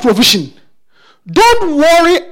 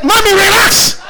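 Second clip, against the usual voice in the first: put-on child's voice; 7 semitones higher, 3 dB louder than usual. Child telling anxious parent to relax.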